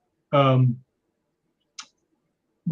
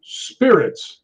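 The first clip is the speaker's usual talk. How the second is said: drawn-out, slightly higher single-word reply; spirit box answer; 5 semitones higher than usual. Retold or imitated. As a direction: lightly imitate a spirit's announcement. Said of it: "And it goes".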